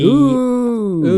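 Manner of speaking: high, loud ghostly ooh; spooky ooh. Acted. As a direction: wail it like a ghost. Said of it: "you never come in with the oohs".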